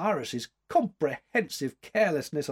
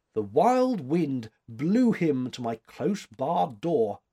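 slow, lilting recitation at raised pitch; quoting verse; 3 semitones higher, 4 dB louder, slower than usual. A narrator's reading. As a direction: recite it like a line of poetry. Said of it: "quoted the girl".

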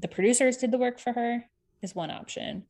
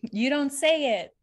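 drawn-out, higher playful scolding; teasing echo; 4 semitones higher, 5 dB louder than usual. Acted. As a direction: stretch each word, teasing.

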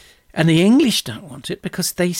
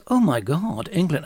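hammed-up Scottish accent with swooping pitch; badly faked Scots lilt; terrible Scottish accent; 4 semitones higher than usual. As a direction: play an amazed Scottish king in a bad accent. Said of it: "excuse my terrible accent".

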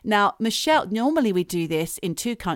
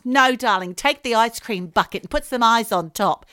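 mum; 2 semitones higher, 5 dB louder than usual. Acted. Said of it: "That's what she'll say".

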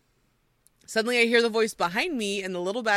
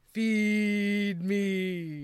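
slow groaning Furby. Retold or imitated. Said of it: "a deep, slow voice groaning".

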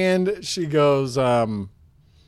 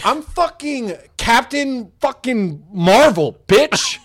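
higher, louder, slow macho threat; mock tough-guy yell; 9 semitones higher, 5 dB louder, much slower than usual. Improv partner voicing Brie Larson bullying a customer, hammed-up loud. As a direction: bark it out like a tough action hero.

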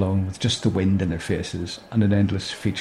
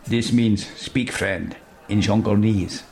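put-on Spanish accent; slower than usual. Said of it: "Can you do that with a Spanish accent?".

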